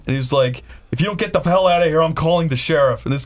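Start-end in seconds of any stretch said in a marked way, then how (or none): 0.9-3.0 quick, raised mock threat; retold guard threat. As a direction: imitate an angry guard threatening trespassers.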